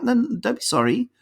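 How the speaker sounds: high, kindly "no, no, don't be sorry"; a mentor easing a shaken new manager; reassuring boss. Retold or imitated. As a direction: reassure him gently, lifting the voice. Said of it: "He's like".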